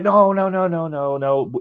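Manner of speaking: high, protesting no's; frantic denial. Retold or imitated. Daughter denying to her dad, high and protesting. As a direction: wave off the accusation.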